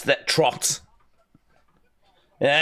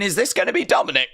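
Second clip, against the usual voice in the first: mock weary question; 5 semitones higher, much faster than usual. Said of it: "I might be sat here at number thirty going".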